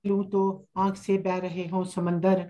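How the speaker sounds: unhurried, measured verse with pauses; poetry recitation. Acted. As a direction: lay each line out gently for the audience. Recites her hamd at a mushaira.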